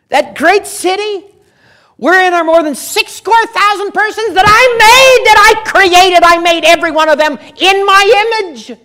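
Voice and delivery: God booming at the prophet from the pulpit; God's voice. Acted. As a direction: proclaim it as God rebuking Jonah. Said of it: "God says".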